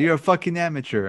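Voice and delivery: badly faked British accent on a retold outburst; attempted British accent. Co-host quoting Christian Bale's rant, attempted British accent. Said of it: "a British accent".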